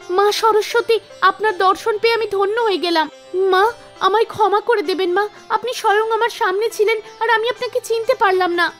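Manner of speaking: lightly voiced girl begging forgiveness; awed young singer. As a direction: apologise devoutly to a goddess. Meena begs the goddess's forgiveness.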